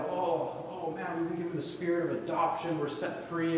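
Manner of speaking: acted burst of praise; excited praise. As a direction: re-enact being overjoyed behind the wheel. Acts praising God while driving.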